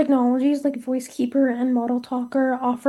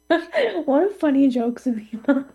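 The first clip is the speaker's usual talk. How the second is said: sarcastic. Real, not acted. Teasing co-host after bad joke.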